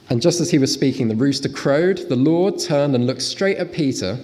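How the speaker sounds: measured Bible narration; scripture reading. Acted. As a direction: read the Gospel story aloud with restraint. Reads the Gospel passage aloud.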